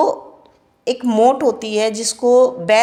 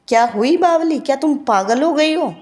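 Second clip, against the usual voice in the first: incredulous question; 4 semitones higher than usual. Shown as a demonstration. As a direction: ask it as if she has gone mad.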